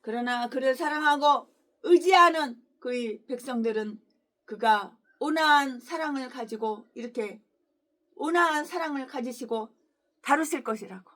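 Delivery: slow, measured scripture read. Acted. Pastor reading scripture to the congregation, measured. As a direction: read the verse gently and evenly.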